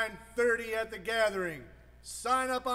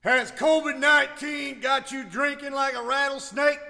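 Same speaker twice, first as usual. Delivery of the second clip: Stone Cold promo. Pretend. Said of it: "'cause Stone Cold said so".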